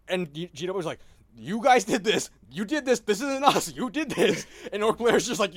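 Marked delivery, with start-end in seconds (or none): 1.4-4.5 high, loud, indignant insisting; mock exasperated protest. Publisher scolding the players, mock exasperated shout. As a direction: throw the blame back, voice climbing. Games Workshop blaming the players.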